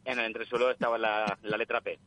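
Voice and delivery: voz de llamada telefónica; por teléfono. Real, not acted. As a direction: suena a través del teléfono. Llamada en directo al programa. (voz de oyente por teléfono)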